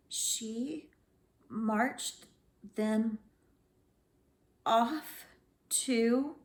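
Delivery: word by word, long pauses between; slow halting reading. A narrator's reading. Struggling reader sounding out her first sentence, halting. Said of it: "slowly she read a sentence".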